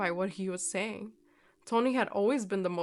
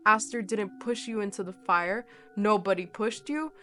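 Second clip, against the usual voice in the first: louder firm command; 5 dB louder than usual. Acted. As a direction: order him firmly. Narrator commands firmly.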